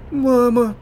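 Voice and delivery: very high, loud desperate cry; a daughter crying for her mother; отчаянный зов; calling out. A narrator's reading. Taya calls for her mother.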